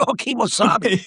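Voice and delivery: slow, drawn-out Kimosabe in a put-on Tonto voice; mock Tonto voice. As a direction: play it like a hammed-up Tonto, mocking the offer. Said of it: "You wanna be Tonto".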